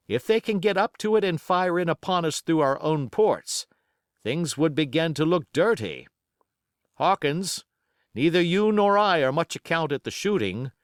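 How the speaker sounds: a ship's captain barking orders to his crew; stern sea captain. A narrator's reading.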